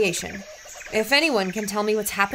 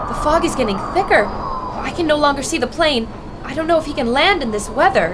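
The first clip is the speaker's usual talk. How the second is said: rising alarm, faster and louder; worried live report as the plane disappears; anxious; 3 semitones higher, 4 dB louder than usual. Acted. Reporter telling listeners she can't see the plane, alarmed.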